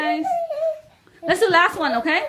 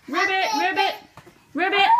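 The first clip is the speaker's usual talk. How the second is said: lightly higher ribbit; frog ribbit; 5 semitones higher than usual. Shown as a demonstration. Mother leading kids hopping like frogs, croaking. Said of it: "let's hop like a frog".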